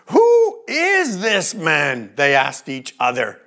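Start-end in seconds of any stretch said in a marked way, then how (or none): 0.1-2.1 terrified amazement. A narrator's reading. Disciples asking each other about Jesus, slow awed wonder. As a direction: ask it as if you can't believe your eyes. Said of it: "The disciples were terrified and amazed".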